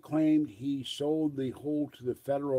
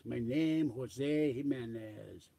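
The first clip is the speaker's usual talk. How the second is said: Jose Jimenez impression; much slower than usual. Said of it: "with the nod to the great late Bill Dana".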